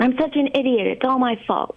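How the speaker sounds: mild imitation of a kid's self-criticism; upset child. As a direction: quote a child blaming themselves, voice lifted. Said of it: "I hear kids say".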